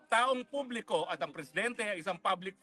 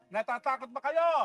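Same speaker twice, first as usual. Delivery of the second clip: rally shout; 3 semitones higher than usual. Acted. Rally speaker asking supporters, shouted call. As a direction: rouse the crowd with a question.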